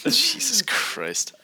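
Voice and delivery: drawn-out, high disbelief; slow, high "Jesus Christ" in shock; stunned exclamation. Real, not acted. Reacting to shocking quote.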